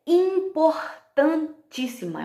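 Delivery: IMPORTANTÍSSIMA slow and high, beat by beat; emphatic syllables. Real, not acted. Teacher stressing a key skill, emphatic syllables. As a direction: break IMPORTANTÍSSIMA into punched syllables.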